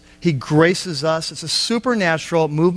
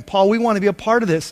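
mock begging; 3 semitones higher, faster than usual. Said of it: "They're just begging".

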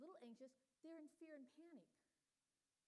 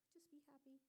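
whispered plea; 3 semitones higher, 8 dB quieter than usual. Retold or imitated. Anxious mother whispers to her screaming baby. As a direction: hush it out as a last plea. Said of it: "If the baby starts to scream".

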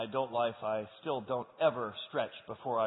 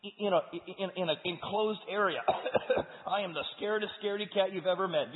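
fearful Gideon; 5 semitones higher, 6 dB louder than usual. Acted. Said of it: "Gideon's like".

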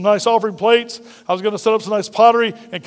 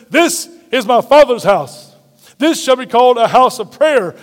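louder, slow, commanding rebuke; mock righteous anger; 2 semitones higher, 5 dB louder than usual. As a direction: drive the money changers out with your voice. Jesus clearing the temple.

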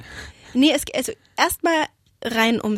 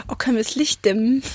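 flüstern; faster than usual. Real, not acted. Licht dimmen, intime Stimmung.

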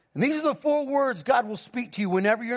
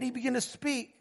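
very soft imitated reply; gently retold wonder, barely raised voice; hushed awe; 8 dB quieter than usual. Wife's awed answer, retold.

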